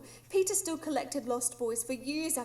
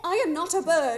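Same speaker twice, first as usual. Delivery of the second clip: laughing protest; 3 semitones higher, 7 dB louder than usual. Acted. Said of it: "Tell that to Toodles".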